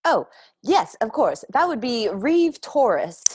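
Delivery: a hint of eager, nervous formality; nervous adolescent. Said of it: "nervous adolescent energy".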